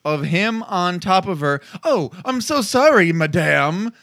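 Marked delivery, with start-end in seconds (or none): 1.8-3.9 mock apology. Retelling the character's apology.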